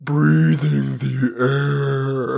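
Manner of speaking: put-on very slow Scottish accent, stretched out; Scottish accent attempt. Host joins the bit with slow Scottish accent. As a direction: drag out breathing in a Scottish brogue. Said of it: "That is a Scottish accent attempt".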